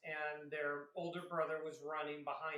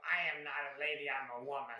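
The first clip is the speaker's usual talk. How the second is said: indignant retort; 3 semitones lower, 4 dB louder than usual. Retold or imitated. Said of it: "I had this lady go".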